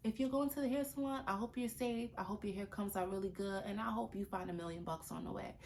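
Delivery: softly hopeful send-off; positive wish. Shown as a demonstration. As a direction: wish them well tenderly. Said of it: "which one sounds better?".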